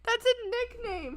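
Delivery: high, loud laughing no; laughing protest. Real, not acted. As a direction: shriek it through laughter. Protesting while laughing hard.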